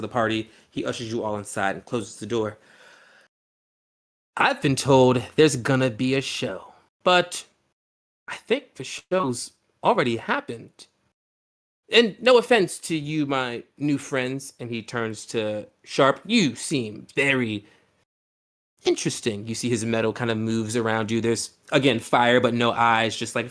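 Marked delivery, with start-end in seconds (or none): 4.4-14.5 gracious host. Acted. Host addressing his new guests, lightly voiced courtesy. Host NPC speaking to party. 16.3-19.5 intrigued host. Acted. Host turns to Sharp.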